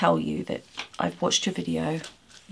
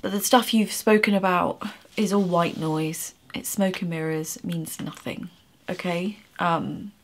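emotional. Real, not acted. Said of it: "Sorry for getting emotional".

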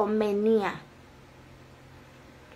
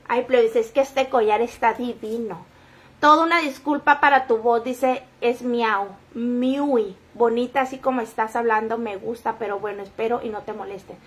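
mocking a follower; 3 semitones lower, 4 dB quieter than usual. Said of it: "Amiguita, la Yeri miau".

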